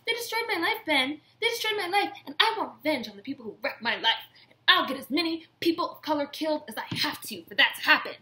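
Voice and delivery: high, loud mock whine; vengeful shrill parody; mocking Karen. Karen wailing to Ben about revenge, high mock voice. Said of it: "But she's like".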